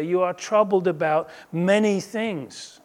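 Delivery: "many things" leaned on, then falling; emphasis on MANY THINGS. Shown as a demonstration. Preacher quoting Jesus to Martha, stressed "many things". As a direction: weigh down on "many things" as the problem. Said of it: "the emphasis there".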